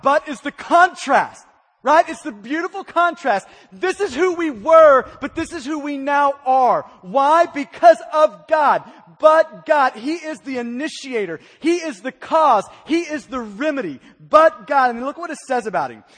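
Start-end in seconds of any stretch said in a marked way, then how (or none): 3.7-14.9 louder and louder toward "But God"; rising pulpit fervour; building preaching. Real, not acted. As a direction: build to a ringing climax.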